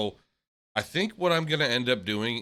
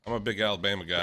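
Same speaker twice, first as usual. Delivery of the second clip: mock Southern accent; 2 semitones lower, faster than usual. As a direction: poke fun with an Alabama accent. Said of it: "it's fun to make fun of it, talk like that".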